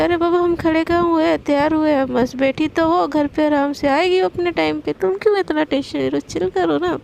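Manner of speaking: lightly acted, quick brush-off; quick, lilting "relax, will you"; exasperated reassurance. Sana tells impatient Palak to chill, mildly exasperated.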